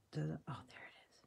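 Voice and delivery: soft quick whispered relief; relieved whisper. Real, not acted. Crafter whispers as the stuck glue finally comes out, relieved.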